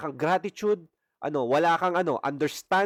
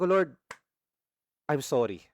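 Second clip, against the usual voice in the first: retold tearful prayer; 2 semitones lower than usual. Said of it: "Umiiyak lang ako doon na parang bata".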